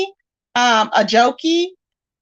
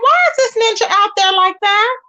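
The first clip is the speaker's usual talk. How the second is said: mock concern; 8 semitones higher than usual. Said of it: "I'm like".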